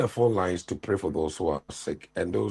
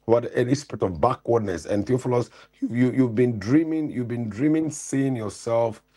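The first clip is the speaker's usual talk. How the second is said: fervent deliverance prayer, raised pitch; preaching prayer; 3 semitones higher than usual. Acted. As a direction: pray over him with full force. Prays over caller's son.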